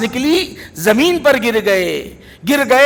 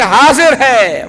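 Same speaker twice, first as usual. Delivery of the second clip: teacher marking present; 4 dB louder, much slower than usual. Retold or imitated. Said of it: "جس طرح teacher لکھتا ہے".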